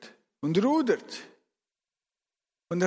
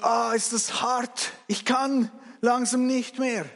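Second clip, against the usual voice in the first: strained call, slightly raised; calling out in exhaustion; 5 semitones higher than usual. Acted. Tired rower calls to the others in the boat, calling out wearily. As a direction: groan it out to the crew. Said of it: "Einer ruft".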